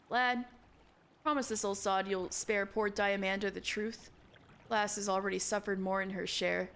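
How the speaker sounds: lightly voiced old seadog pleading; a hint of a weary old sailor begging a promise; gruff old sailor. Old sailor begs the lad to spare Diamanda, lightly voiced. Voicing old shipbuilder Mimidoa.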